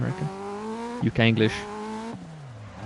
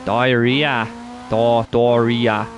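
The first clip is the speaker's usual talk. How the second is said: Australian diarrhea; much slower than usual. Retold or imitated. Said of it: "In Australia they say diarrhea".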